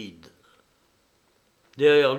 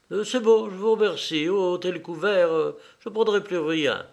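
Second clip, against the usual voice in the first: high, louder, brisk dismissal; curt dismissal; 6 semitones higher, 4 dB louder than usual. A narrator's reading. Mother interrupts the servant bringing dessert, curtly. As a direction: cut in firmly with raised pitch.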